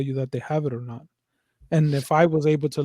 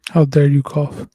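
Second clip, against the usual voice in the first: mock-indignant, joking; sarcastic fake scolding, a little louder; 5 dB louder, slower than usual. Co-host teasing the other for coughing, sarcastic. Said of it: "I'm being sarcastic".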